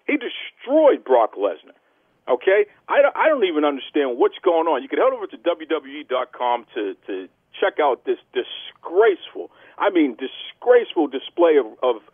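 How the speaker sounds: emphatic, disgusted wrestling commentator; wrestling news rant. Acted. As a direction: punch key words as you rant to the fans.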